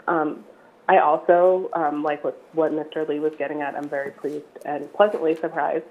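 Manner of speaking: hoarse, croaky voice; speaking through a frog in the throat. Real, not acted. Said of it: "I apologize for my odd voice".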